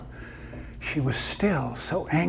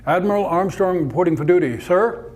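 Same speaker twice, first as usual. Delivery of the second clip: louder repeat; 3 semitones higher, 6 dB louder than usual. Acted. Repeats louder to deaf admiral.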